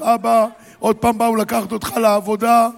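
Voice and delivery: put-on high and loud frightened children's cry; screaming kids. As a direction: cry out scared to their father. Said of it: "התחילו לצרוח". (ילדים צורחים בפחד)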